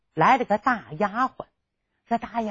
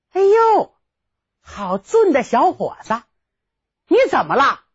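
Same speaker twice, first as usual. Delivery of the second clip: 丫鬟的惊叹; 3 semitones higher than usual. Acted. 丫鬟惊叹公子.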